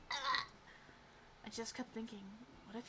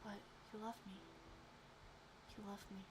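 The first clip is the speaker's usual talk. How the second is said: very soft, breathy; soft whisper; 2 semitones lower, 13 dB quieter, faster than usual. Acted. Cove whispering into the listener's ear, very soft. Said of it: "He whispered".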